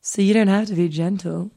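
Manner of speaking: quick, lightly suggestive smooth-talker; hint of a creepy jazz croon. Host reads date's suggestive text, lightly put-on smooth jazz voice. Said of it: "he's smooth jazz voice".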